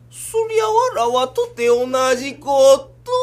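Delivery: slow, loud stylised court-lady voice; kabuki lady. Acted. Son playing a kabuki lady, slow stylised intoning. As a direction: intone it slowly like an onnagata. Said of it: "お前か今変な声出したんは".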